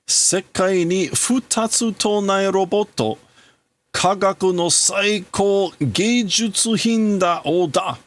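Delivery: a grieving scientist swearing to rebuild his son; grieving father. Acted.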